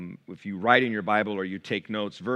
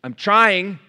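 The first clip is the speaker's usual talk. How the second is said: higher, louder strained cry; a touch of frustration; 8 semitones higher, 10 dB louder than usual. Retold or imitated. Psalmist crying out to God, strained and louder. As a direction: push out the effort. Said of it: "This is what he's saying".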